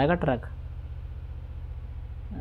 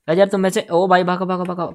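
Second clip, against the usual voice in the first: louder and higher, urging everyone to run; urgent shout; 4 semitones higher, 4 dB louder than usual. Real, not acted. Gamer yelling at his squad to flee, urgent shout.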